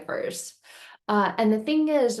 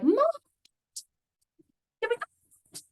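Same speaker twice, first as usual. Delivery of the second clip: put-on hopeful child. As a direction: ask mom sweetly like a little kid.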